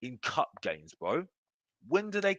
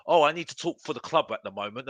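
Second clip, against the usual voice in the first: mock excuse; 3 semitones lower, faster than usual. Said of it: "you're talking like".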